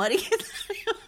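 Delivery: high laughing delivery. Real, not acted. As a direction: laugh through the words. Laughing while telling story.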